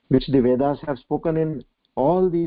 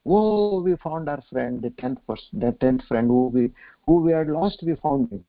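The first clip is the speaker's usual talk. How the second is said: overjoyed. Acted. And they start dancing.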